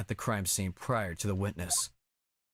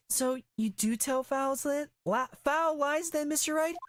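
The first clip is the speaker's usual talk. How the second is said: stern accusing retake. Acted. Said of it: "I said that weird".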